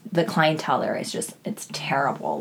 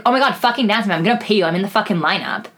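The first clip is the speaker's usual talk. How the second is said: raised, higher pushy demand; mimicked angry customer; 4 semitones higher, 4 dB louder, faster than usual. Customer loudly demanding a dance from the dancer, raised and pushy. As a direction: play the insistent drunk customer.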